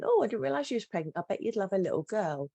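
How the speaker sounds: retold innocent exclamation, opening high; innocent remark. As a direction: chirp it innocently, as a well-meaning friend would. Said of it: "quite innocently remarked saying".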